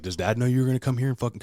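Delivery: acted indignation; retold confrontation.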